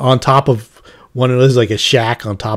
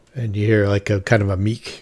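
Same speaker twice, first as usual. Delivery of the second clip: ordinary talk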